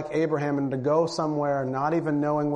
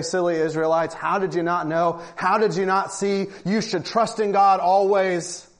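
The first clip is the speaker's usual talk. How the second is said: mock condescension; 2 semitones higher than usual. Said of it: "It's easy to cast stones and say".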